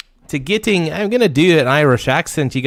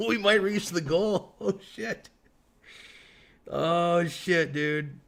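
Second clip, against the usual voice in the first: laughing; 4 semitones higher, 8 dB quieter, slower than usual. Real, not acted. Gift goal nearly reached.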